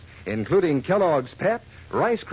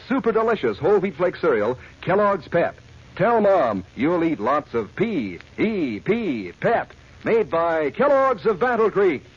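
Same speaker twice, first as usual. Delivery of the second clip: radio ad read. Acted. Radio ad spelling out cereal.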